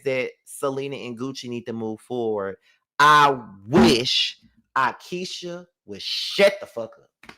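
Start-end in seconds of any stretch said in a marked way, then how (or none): 3.0-7.3 slow, drawn-out words sinking to a voiceless hiss; fed-up aside. Real, not acted. Viewer fed up with Akeisha, slow fed-up hiss. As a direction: drag it out, then breathe the end.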